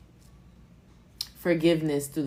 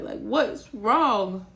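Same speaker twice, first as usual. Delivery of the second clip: slow comforting coo; 5 semitones higher, 5 dB louder, much slower than usual. Pretend. Comforting again, slowly.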